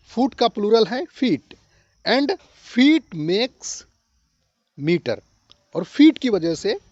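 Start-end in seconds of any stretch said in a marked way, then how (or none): 2.0-5.2 slow dictation. Shown as a demonstration. Teacher spelling out a chain.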